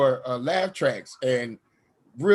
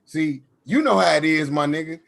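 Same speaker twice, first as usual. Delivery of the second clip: louder, casual homie voice; bro talk; 4 dB louder than usual. Retold or imitated. With Matt in LA, louder casual bro voice. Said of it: "and I'm like".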